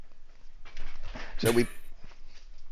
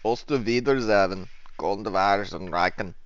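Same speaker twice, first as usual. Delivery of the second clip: fake German; 2 semitones lower, 4 dB quieter than usual. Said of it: "that sounds Dutch".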